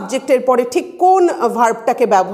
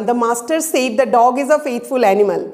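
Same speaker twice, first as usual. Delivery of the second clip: slow, careful reading aloud; slow dictation; much slower than usual. Shown as a demonstration. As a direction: spell the sentence out slowly for the class. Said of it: "এই যে আমি লাইনটা বললাম". (ধীরে ধীরে পড়ে শোনানো)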